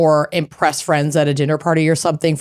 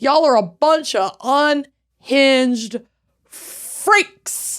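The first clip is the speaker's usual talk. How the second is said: playful teasing; 8 semitones higher, much slower than usual. Acted. Teasing listeners.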